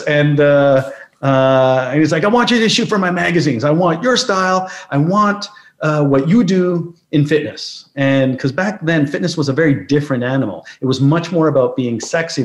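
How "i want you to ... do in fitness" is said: put-on English accent. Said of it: "a staunch British accent, or English accent".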